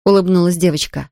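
ordinary delivery

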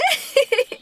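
a short, high burst of laughter; giggle. Acted. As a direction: laugh at your own joke. Girl laughs at own joke.

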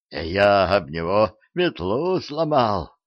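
plain reading voice

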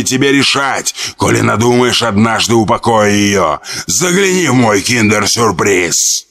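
gurgling demon voice. Acted. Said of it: "произнесло булькающим голосом".

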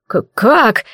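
stuttering, stunned disbelief; stammering in shock. Acted. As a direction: stammer it out, shaken. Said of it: "заикаясь и не веря своим глазам".

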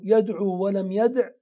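يدعو with long final "oo", then يدع cut to a short ending; weak-letter deletion. Shown as a demonstration. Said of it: "لأنها حذف حرف العلة".

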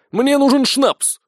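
high, loud, drawn-out demand; exclaiming. A narrator's reading. Sergeant demands schnapps from the tavern keeper, exclaiming. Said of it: "воскликнул Сисюля".

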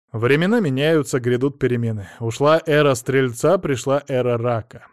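usual speaking voice

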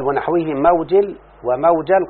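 موجل as mawjil, then وموجل as wamawjal, slowly; two vowelings. Shown as a demonstration. Teacher reading both readings to the student, slow and careful. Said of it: "والأكثرون بالكسر موجل".

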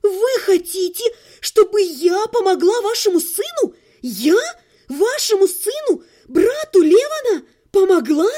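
incredulous, almost hysterical outburst; hysterical disbelief. Acted. Heroine laughs bitterly in disbelief. (истерично, со смехом сквозь слёзы)

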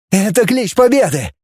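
high, rousing battle cry; joyful war cry; cheering shout. A narrator's reading. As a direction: take up the cheer. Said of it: "подхватил".

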